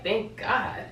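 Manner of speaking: mock-baffled repeat of THANK GOD, each word set apart; retold incredulous echo. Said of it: "I'm the one panicking".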